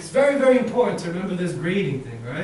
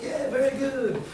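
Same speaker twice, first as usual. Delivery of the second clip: acted praise; 7 semitones higher than usual. Teacher praising the group's answer, upbeat.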